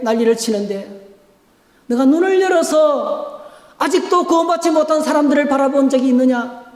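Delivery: God's challenging questions. Acted. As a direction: challenge the listener as God. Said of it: "주님은 저와 여러분들에게 계속 질문합니다".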